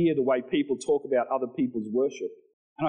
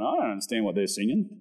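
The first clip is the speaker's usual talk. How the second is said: put-on lower, quick teenage shrug of a line; a touch of a baffled teen, lower and quick; imitating his younger self; 4 semitones lower, faster than usual. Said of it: "and I'm going".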